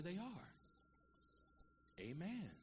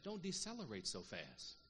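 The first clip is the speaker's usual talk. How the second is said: slowed warning; slower than usual. Shown as a demonstration.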